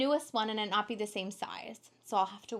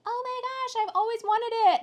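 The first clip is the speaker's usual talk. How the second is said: much higher and a bit louder, squealy mock longing; imitating excited friend; 14 semitones higher, 6 dB louder than usual. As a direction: play the friend who wants it badly.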